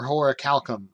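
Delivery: "horacalcum" with a hard c, as hora-KAL-kum; alternative pronunciation. Shown as a demonstration. Reader offering another option, "horacalcum" as hora-KAL-kum. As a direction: say "horacalcum" with flat a as in "pal", then k. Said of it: "I'm gonna call it horacalcum".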